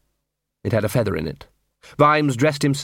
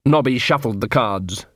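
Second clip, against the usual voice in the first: ordinary delivery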